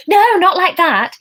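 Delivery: high, loud hurried correction. A narrator's reading. Emma hurriedly correcting the receptionist. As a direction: rush to take it back. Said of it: "Emma added hurriedly".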